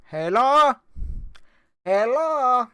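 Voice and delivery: high imitated call down the road; yelling out. Spanish woman calling for the dog's owner, high imitated yell. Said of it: "and yells out".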